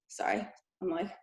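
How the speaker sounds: short of breath, winded and soft. Real, not acted. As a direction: talk while still catching your breath. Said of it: "I've been out of breath all day".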